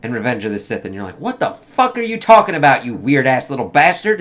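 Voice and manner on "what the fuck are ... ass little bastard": loud, high-pitched incredulous outburst; mock indignation. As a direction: react as if utterly baffled and offended. Mock indignant reaction to the film.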